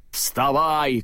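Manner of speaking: ordinary delivery, nothing marked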